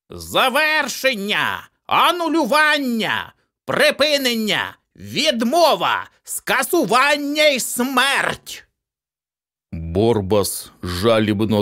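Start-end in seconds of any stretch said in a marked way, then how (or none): 0.1-8.7 much higher, slow, each word hurled; shouted annulment. A narrator's reading. Accountant shielding the boy, shouting slow annulment words. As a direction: pronounce each cancellation like a verdict. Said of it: "вигукнув слова анулювання".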